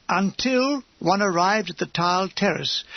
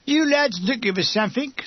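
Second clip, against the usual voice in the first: a lightly voiced wavery older Cockney lady, higher; understated wavery Cockney woman's call; 5 semitones higher than usual. A narrator's reading. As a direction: raise it into a thin, wavery Cockney lady's voice. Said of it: "A wavery female Cockney voice".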